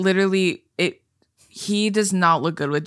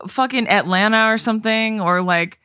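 higher, listing places in disbelief; ranting; 4 semitones higher than usual. Retold or imitated. Friend retelling her rant about southern places, indignant. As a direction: keep the outraged rant going. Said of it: "I said".

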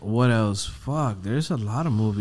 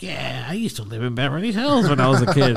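put-on proud kid bragging through a laugh; laughing boast. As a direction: brag it while chuckling. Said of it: "I used to be like".

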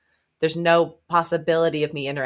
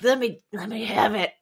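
mock French accent; 4 semitones higher than usual. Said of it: "keep talking in that awesome French accent".

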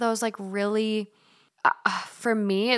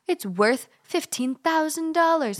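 mock amazement; 6 semitones higher than usual. Mimicking coin collectors' boasts.

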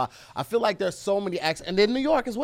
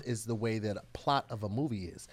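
speaking with purpose; 3 semitones lower, 5 dB quieter than usual. Pretend. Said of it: "I'm speaking with purpose".

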